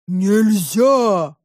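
drawn-out growling monster. A narrator's reading. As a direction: growl it like a beast. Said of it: "зарычало чудовище". (рычание чудовища)

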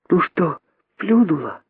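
put-on high, small child's voice; high-pitched curious youngster; little monkey daughter. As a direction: ask mum eagerly in a little voice. Daughter monkey asks mother eagerly.

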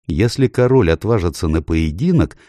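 ordinary delivery

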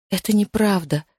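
plain reading voice

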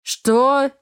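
high, loud contemptuous snap; angry and contemptuous. Acted. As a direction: snap it with scorn. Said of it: "Зло и уничижительно".

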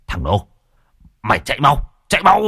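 building from call to a high yell; rising into a frantic shout to flee; flustered shout. Acted. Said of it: "luống cuống". (cuống cuồng hét lên giục chạy)

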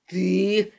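sputtering angry cry; furious yell. Acted. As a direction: choke on rage. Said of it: "заорал он".

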